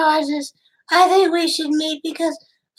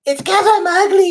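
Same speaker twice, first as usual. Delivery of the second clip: crying; 3 semitones higher, 5 dB louder than usual. Acted. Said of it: "Why are you crying?".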